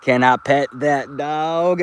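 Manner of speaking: slow, drawn-out imitation of a viral clip; YouTube drop impression. Quoting a YouTuber's drop to the chat, slow light mimicry. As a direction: lightly mimic the drop, stretching each word. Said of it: "he has a drop that's spelt like".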